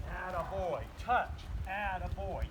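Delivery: slow, upbeat praise for the dog. Shown as a demonstration. Trainer showing praise to his dog. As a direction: reward him with your voice. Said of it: "Praise is word".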